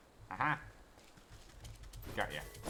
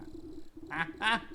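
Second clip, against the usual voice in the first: mocking laugh; 9 semitones higher than usual. Boy laughs off the deal.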